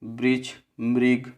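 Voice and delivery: वृक्ष and मृग said slowly, the ri sound pronounced clearly; slow, clear example words. Shown as a demonstration. Teacher reading examples slowly to students. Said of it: "जैसे".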